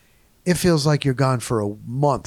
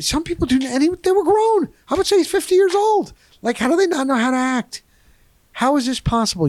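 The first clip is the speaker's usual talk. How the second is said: high-pitched, incredulous outburst; real exasperation, pitched high; exasperated rant; 13 semitones higher, faster than usual. Real, not acted. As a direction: rant in disbelief at his behavior, voice way up. Exasperated rant about rude passenger.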